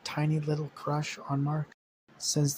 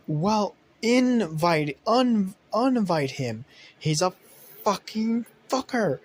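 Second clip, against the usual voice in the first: higher, louder, slow furious rant; angry yell; 7 semitones higher, 5 dB louder, slower than usual. Acted. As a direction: spit out the insults at him. Rex yelling insults.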